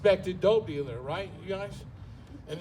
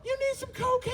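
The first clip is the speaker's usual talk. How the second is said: very high mock voice, hesitant; squeaky mock passenger; 13 semitones higher than usual. The passenger asking the driver, in a very high mock voice. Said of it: "And I say".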